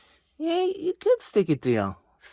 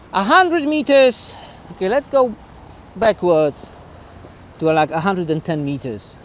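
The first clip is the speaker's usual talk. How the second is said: calling out from afar; 3 semitones higher, 3 dB louder than usual. Real, not acted. Shouting to distant camera outdoors.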